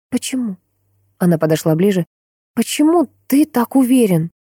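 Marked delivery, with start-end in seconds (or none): 0.1-0.6 soft, higher daughter's question. A narrator's reading. Daughter questions father's certainty. 2.5-4.3 high-pitched, pressing question; insistent daughter. A narrator's reading. Daughter presses father for answer.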